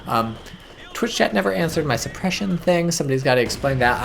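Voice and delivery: normal talking voice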